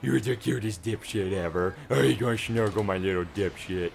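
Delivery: cutesy pet voice. Pretend. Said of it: "talk to Cletus like that".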